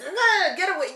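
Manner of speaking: high, loud irritated outburst; snapping. Acted. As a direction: snap at someone to back off, hammed-up. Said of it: "You know, I'm snapping at people".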